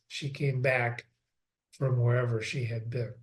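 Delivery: she came back, said slowly and softly; slow, quiet reread. Shown as a demonstration. Teacher rereads the key line slowly for the class, quiet and deliberate. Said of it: "That's why he wrote this sentence".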